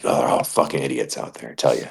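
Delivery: low, soft drawled yokel voice; lightly voiced folksy local; mock yokel. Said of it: "I'm like".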